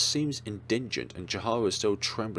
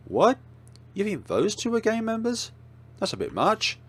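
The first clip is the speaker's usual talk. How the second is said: high, loud shocked outburst; surprised; 13 semitones higher, 4 dB louder than usual. Acted. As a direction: blurt it out in shock. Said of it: "look at Ember in surprise".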